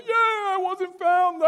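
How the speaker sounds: high, loud, drawn-out mock cheer; gleeful son. Son bursting out of hiding as winner, gleeful crowing. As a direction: imitate a clueless kid crowing in victory. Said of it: "and he's like".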